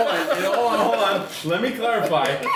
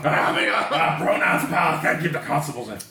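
breathless giggling, rushed at the end; fighting through a laughing fit; after laughing hard. Real, not acted. Laughing fit over constables.

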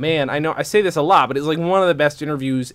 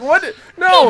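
much higher, louder squeaky put-on voice; silly high voice; 8 dB louder than usual. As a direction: pitch way up like a cartoon. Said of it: "I almost started talking then".

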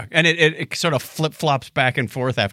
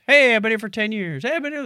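higher, chirpy bragging voice; mock-proud coworker announcing tenure; mock LinkedIn bragger; 5 semitones higher, faster than usual. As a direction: parody a proud work-anniversary post. Mocking LinkedIn anniversary posts.

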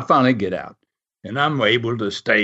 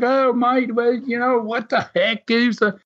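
high-pitched mock Aussie grumble; imitated complaining; 10 semitones higher than usual. Aussie swimmers leaving the water, imitated complaining. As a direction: grumble higher like put-out Aussie beachgoers. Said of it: "they were all complaining".

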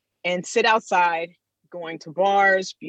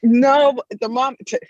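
stuffy nasal voice from the cold; 5 semitones higher, 5 dB louder than usual. Real, not acted. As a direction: talk through a blocked nose. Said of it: "So if you hear me kinda nasally".

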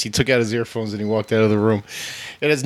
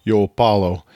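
Rocky; 2 semitones lower, 3 dB louder than usual. Acted. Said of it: "a worse Rocky accent than us".

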